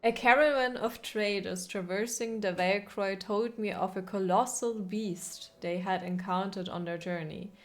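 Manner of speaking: measured storyteller narration of a travel tale; lore reading. Acted. Streamer reads the game's lore entry aloud, storyteller narration. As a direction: read it like an old chronicle, steady and grave.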